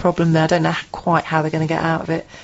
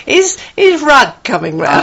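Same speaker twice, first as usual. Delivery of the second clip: put-on little girl voice; 5 semitones higher, 7 dB louder than usual. Voicing little daughter's question.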